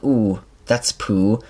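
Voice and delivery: calm ooh. Retold or imitated. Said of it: "it says it so calmly".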